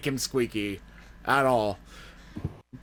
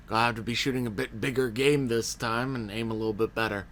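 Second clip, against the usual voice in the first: put-on Texan accent; 3 semitones lower, 5 dB quieter than usual. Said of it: "I don't know why I'm Texan".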